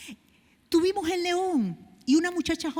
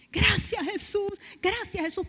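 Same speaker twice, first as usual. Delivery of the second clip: higher, tearful thanks; grateful weeping; 6 semitones higher than usual. Retold or imitated. Healed woman weeping thanks to Jesus, higher and tearful. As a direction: let the thanks break like she's crying. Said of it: "comienza a llorar".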